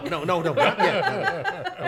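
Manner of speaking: high, loud comic panic; frantic holding-off. Retold or imitated. Nephew stopping uncle changing channel, frantic. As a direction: imitate hastily stopping an eager uncle.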